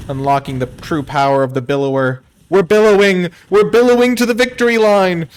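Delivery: loud, high, triumphant hype; excited shouting. Real, not acted. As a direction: yell it like a victory chant. Hype over winning draw.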